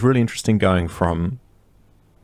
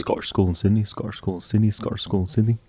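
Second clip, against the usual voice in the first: Scottish school in Sydney rattled off quickly; tongue twister fast; 5 dB quieter than usual. Shown as a demonstration. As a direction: race through the tongue twister. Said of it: "say it three times fast".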